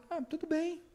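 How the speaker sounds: very high, soft giving-in voice; mock indulgent parent. Parent giving in to the child, mock-soft indulgence. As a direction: parody a pushover parent.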